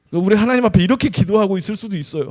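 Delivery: normal talking voice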